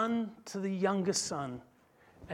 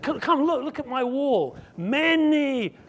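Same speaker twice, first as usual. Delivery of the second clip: high, loud, slow shouted complaint; resentful outburst; 6 semitones higher, 11 dB louder, much slower than usual. Acted. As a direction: shout the grievance, draw it out. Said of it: "he said".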